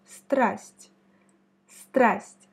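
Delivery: страсть said clearly, each consonant sounded. Shown as a demonstration. Teacher asking the learner to repeat the word, clear and careful. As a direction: pronounce страсть carefully, all five consonants. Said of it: "prononce avec moi le mot страсть".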